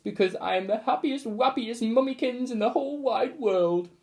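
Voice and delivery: put-on high, gushing baby-talk mother; gushing mummy. A narrator's reading. Mother gushes to her son, high and cooing. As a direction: coo it with sugary pride.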